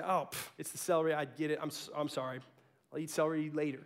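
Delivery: gentle apology. Retold or imitated. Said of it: "We just say".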